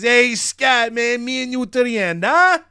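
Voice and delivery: eager wrestler cutting a promo for his buddy; excited Brooks Jensen. Acted. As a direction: pump up your new tag partner. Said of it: "he grabs a mic and he says".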